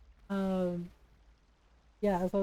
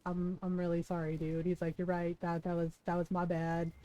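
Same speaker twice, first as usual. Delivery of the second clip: softer, lower sheepish apology; retold apology; 4 semitones lower, 5 dB quieter than usual. Coworker apologizing to Ron for the remark, sheepish and subdued. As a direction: back down contritely, voice dropped. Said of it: "like, apologized".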